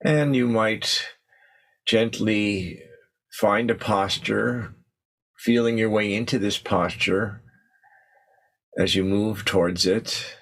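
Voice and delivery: unhurried meditation guidance with long pauses; guided meditation. Acted. Teacher settling the group into posture and breath, guided meditation. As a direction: ease them gently into stillness, leaving space between phrases.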